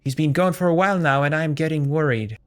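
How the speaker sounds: wife waiting up for her husband, lightly worried. Acted. Wife voiced by the player, mildly anxious.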